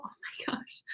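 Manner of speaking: slow breathy whisper of sympathy. Real, not acted. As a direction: drop to a whisper, drawn out. Sympathising over migraines.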